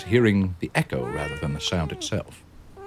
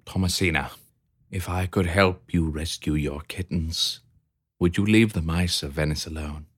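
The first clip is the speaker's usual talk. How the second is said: very softly. Acted. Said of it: "Very softly".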